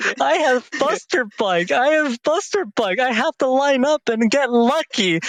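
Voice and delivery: lightly mimics the opponent's fretting, barely changed from his own voice; a hint of the opponent's worried ramble; mocking imitation. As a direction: parrot him back with a mild mock whine. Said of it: "go on this rant about".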